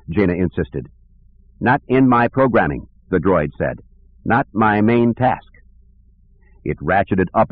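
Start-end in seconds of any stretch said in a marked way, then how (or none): 1.6-2.9 clanking voice. Acted. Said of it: "it said in a clanking voice". 4.2-5.5 clanking voice. Acted. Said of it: "it said in a clanking voice".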